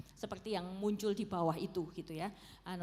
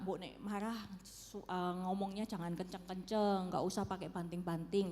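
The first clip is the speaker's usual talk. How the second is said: a touch of calm coaxing; calm, gentle request; 2 semitones lower than usual. Acted. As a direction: ask it nicely, keeping the voice down. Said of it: "setelah tenang gitu ya, kita bicara baik-baik".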